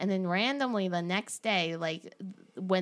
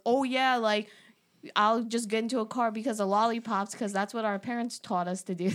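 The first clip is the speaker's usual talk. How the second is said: mocking; 4 semitones higher, 5 dB louder than usual. Friends mocking her idea.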